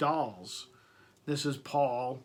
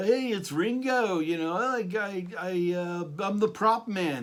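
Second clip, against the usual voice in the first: dopey huh-huh voice, pitched up high; 5 semitones higher, 3 dB louder than usual. Retelling how the cartoon showed the drummer as stupid: cartoon drummer's dopey huh voice. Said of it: "had the huh, huh voice".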